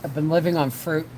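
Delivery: talking with a mouthful of egg; chewing noisily. Real, not acted. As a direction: chew while you talk. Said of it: "I'm sorry I'm eating on camera".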